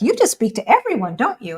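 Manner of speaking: high, swooping mock astonishment; incredulous quote. Friend teasing her for greeting strangers, mock incredulous. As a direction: lightly imitate a friend's pointed question. Retells a friend's amused remark.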